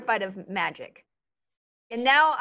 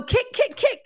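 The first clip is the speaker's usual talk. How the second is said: crazy River; 10 semitones higher than usual. Pretend. River acting crazy in the game.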